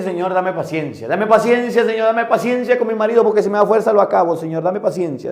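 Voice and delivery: loud, high, exasperated pleading to God; exasperated prayer. Retold or imitated. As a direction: cry out to the Lord, fed up with your husband. La señora pide paciencia a Dios. (súplica exasperada y en voz alta, más aguda)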